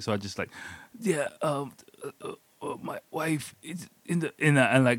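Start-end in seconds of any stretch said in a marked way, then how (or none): 1.0-4.3 higher, halting mock panic; panicked stumbling. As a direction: act out fumbling for words in a panic. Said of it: "I'm stumbling, I'm panicking".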